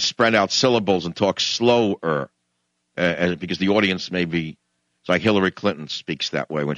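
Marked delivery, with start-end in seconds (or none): 0.0-2.3 slow, spread-out syllables; deliberately slowed down. Shown as a demonstration. Host slowing down so the audience can follow, drawn out. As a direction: stretch each word for a slow audience. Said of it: "I have to slow down".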